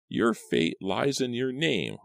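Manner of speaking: high, slow, swooping crone voice; ominous old crone. A narrator's reading. Old Aggie foretelling Simon's fate, slow croak. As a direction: intone it like a prophecy. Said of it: "old Aggie replied".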